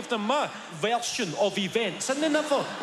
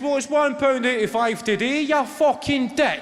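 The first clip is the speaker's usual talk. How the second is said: mock angry retort; 6 semitones higher, 5 dB louder than usual. Bus driver snaps back at passenger.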